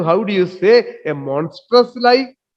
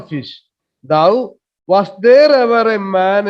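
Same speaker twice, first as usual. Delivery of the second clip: dramatic reading. Acted. Teacher reads Trinculo's line aloud.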